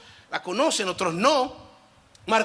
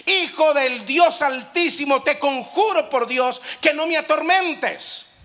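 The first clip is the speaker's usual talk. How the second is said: high, loud, slow demonic plea; slow, loud cry of the tormented demon; 7 semitones higher, 4 dB louder, slower than usual. Acted. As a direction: cry out to Jesus, begging. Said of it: "clamó a gran voz y dijo".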